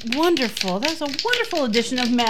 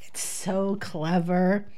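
reading with giggles; 5 semitones lower than usual. Acted. Reading a Mad Libs aloud.

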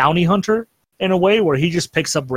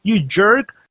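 higher-pitched mock yell, not full volume; mock scream; 7 semitones higher than usual. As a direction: imitate an angry yell, held back in loudness. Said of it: "he just starts screaming".

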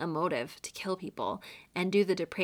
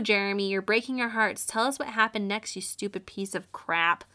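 sarcastic; 5 dB louder than usual. Pretend. Sarcastic scolding of the killer.

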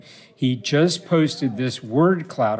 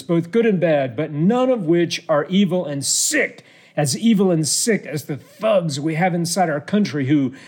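lightly performed ranting politician; Donald Trump; 3 semitones higher than usual. Acted. Host reading Trump's Christmas message to Tom, lightly mock-ranting. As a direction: declaim the holiday rant, a touch emphatic. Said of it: "this is Donald Trump".

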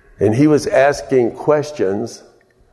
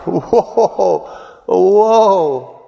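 high, rising exclamations of awe; excited whoa; 8 semitones higher than usual. Real, not acted. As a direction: cry out in wonder.

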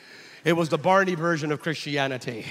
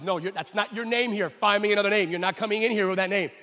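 louder, insistent passport officer; stern official; 3 semitones higher, 4 dB louder than usual. Retold or imitated. Passport officer refusing the pastor's name, insistent. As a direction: lay down the law at the counter. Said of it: "And the guy says".

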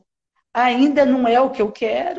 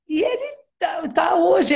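emotional burst; 6 semitones higher than usual. Real, not acted. Mother telling about her son, voice breaking into a shout. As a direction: voice jumps up, half crying, half shouting.

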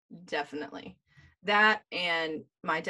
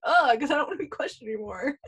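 whiny reply; 5 semitones higher, faster than usual. Retold or imitated. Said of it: "I was like".

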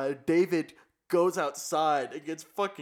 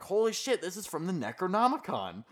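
mock astonishment; 4 semitones higher than usual. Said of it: "they're like".

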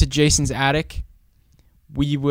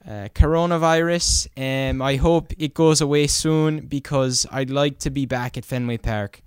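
put-on Irish accent. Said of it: "I can do an Irish accent pretty good".

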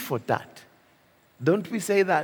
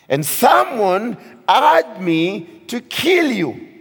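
raised, higher pleading preacher's voice; David pleading; 4 semitones higher, 3 dB louder than usual. Retold or imitated. David pleads with Saul outside the cave, raised earnest voice. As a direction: plead with the king, full voice. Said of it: "And David said".

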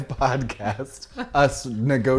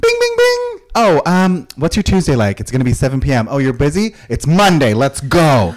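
mock eager booker; 4 dB louder than usual. Imitating cohost booking.

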